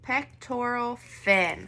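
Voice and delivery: "Pectoral" stretched out slowly, each syllable clear. Shown as a demonstration. Teacher models "Pectoral fin" slowly for kids to repeat. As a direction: model the word slowly for them to copy. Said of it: "Can you say the word pectoral?".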